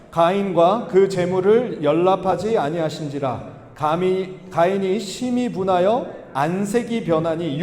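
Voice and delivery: slow, measured congregational reading; deliberate, evenly paced recitation; scripture reading. Acted. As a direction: read the verse out slowly for all to follow.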